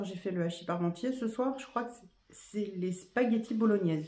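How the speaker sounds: talking through hiccups; words broken by hiccups. Real, not acted. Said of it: "Excusez-moi, j'ai le hoquette".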